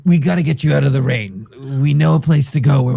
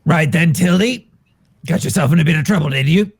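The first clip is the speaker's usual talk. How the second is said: pirate captain greeting; 3 semitones higher, faster than usual. Acted. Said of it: "screams out".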